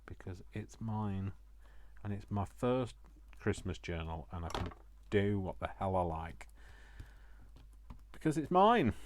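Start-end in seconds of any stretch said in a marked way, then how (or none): 0.0-1.3 softer, slow and firm; quiet stubborn. Real, not acted. Crafter defending her own journal, softly stubborn. 8.1-8.9 much higher and louder, triumphant; defiant declaration. Real, not acted. Crafter insisting to viewers it's her journal, loud and defiant.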